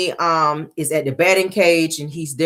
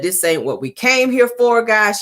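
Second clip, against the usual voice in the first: imitating a calm, measured plea, a little higher; lightly acted calm reasoning in a higher voice; 6 semitones higher than usual. Melody telling the girls why they came, imitated calm tone. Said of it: "talking in a real calm tone".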